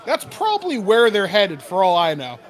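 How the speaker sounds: gnome innkeeper. Acted. Gnome barkeep gossips to the adventurer about troublemakers, lightly voiced. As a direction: lean in and gossip about the rowdy lads. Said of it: "He's like".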